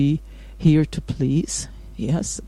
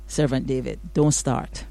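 mock scolding; 3 semitones lower, 5 dB quieter than usual.

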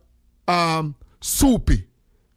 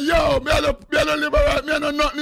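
retold plea; 8 semitones higher than usual. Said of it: "I say".

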